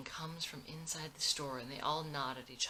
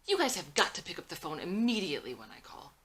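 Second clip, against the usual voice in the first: urgent, louder, pressing demand; quick and urgent; 3 semitones higher, 7 dB louder, faster than usual. Acted. Jailed mother urging her kids on the phone, quick and urgent. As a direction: rush it out, anxious and insistent. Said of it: "Speaks quickly and urgently".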